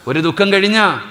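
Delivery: കഴിഞ്ഞ lifted high and loud. Shown as a demonstration. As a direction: restate ഒരു ദുഃഖം കഴിഞ്ഞ with force.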